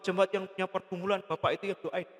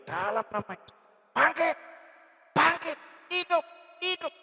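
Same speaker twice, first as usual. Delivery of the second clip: high, raised cries in short bursts; commanding prayer; 9 semitones higher than usual. Retold or imitated. Man prays over a dead woman to rise, commanding cries. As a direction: re-enact a forceful prayer of command.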